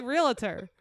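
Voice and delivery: "realtor" as REE-la-ter; three-syllable pronunciation. Shown as a demonstration. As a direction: add an extra vowel inside "realtor", between L and T. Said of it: "Some people say realtor".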